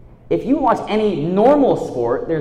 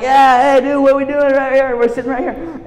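bro voice; 7 semitones higher, 5 dB louder than usual. Retold or imitated. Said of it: "I'm like".

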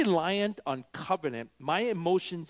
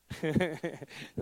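chuckle; 6 dB quieter than usual. Real, not acted. Laughs at own joke.

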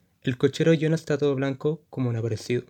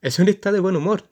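risa forzada; 6 semitones higher, 5 dB louder, faster than usual. Acted. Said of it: "dice Jonah con risa forzada".

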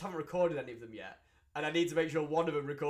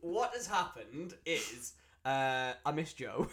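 laughing; much slower than usual. Real, not acted. Slow laughing confession.

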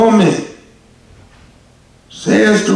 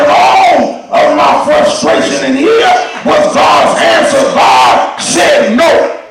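preaching climax; 3 semitones higher than usual. Acted. Preacher voicing Naomi's prayer, building to a shout. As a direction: climb with each called out to God.

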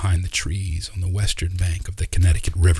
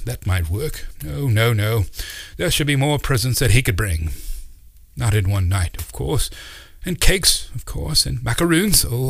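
put-on flustered old uncle; 4 semitones higher than usual. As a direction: babble in a kindly fluster about a dead cat. Uncle Doc's planning voice.

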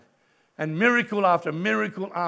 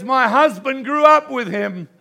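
excited; 5 semitones higher, 7 dB louder than usual. Retold or imitated. Owner crying, overwhelmed.

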